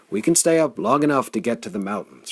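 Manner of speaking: loud, rasping insistence; rasped. Acted. Flame insists they can reach the mountains, loud rasp. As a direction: rasp it out forcefully. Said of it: "Flame rasped".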